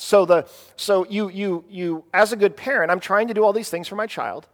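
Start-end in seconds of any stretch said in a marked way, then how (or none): none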